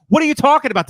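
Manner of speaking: put-on answering girlfriend with an indignant shout; mock yell. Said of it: "And I'll go".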